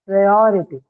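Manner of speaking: "Priority" said whole and clearly articulated; careful articulation. Shown as a demonstration. Teacher showing learners how to articulate a word, careful articulation. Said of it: "This is how you articulate it".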